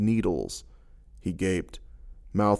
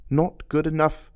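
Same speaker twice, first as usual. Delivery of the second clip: jeering; 7 semitones higher than usual. A narrator's reading. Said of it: "she jeered".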